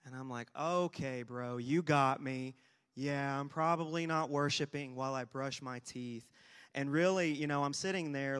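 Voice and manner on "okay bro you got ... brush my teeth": loud, mildly annoyed comeback. Retold or imitated. Student conceding to his teacher, retold annoyed reply. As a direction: concede it loudly, with mock irritation. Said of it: "annoyed that he asked me that".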